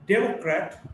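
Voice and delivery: democrat as DEM-ocrat; democrat, weight on the first syllable; shifting-stress demo. Shown as a demonstration. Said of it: "stress shifts depending on the morphological structure".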